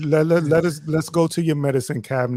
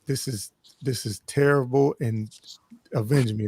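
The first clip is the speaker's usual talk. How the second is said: slow, hammed-up dying words; overacted death scene; 5 dB louder than usual. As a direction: plead like a fallen hero. Mock dying plea to clan.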